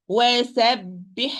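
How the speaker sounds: "وَسَبِّحْ" ending in a long running throat h; careful demo with sustained final ح; flowing breath on ha. Shown as a demonstration. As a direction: let the breath flow out on the ح of "وَسَبِّحْ". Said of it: "flow of the breath".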